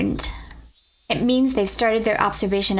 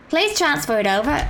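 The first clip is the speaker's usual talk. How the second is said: higher-pitched, vaguely British put-on accent; random accent; 5 semitones higher than usual. Commander asking for the call to be transferred, in a random accent. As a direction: minor character in a made-up, pitched-up accent. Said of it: "I just give them random accents".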